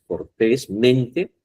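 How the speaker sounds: "cortésmente" slowed syllable by syllable; slow teaching demo of "cortésmente"; drawn out slowly. Shown as a demonstration. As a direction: spell out "cortésmente" slowly, stressing TÉS.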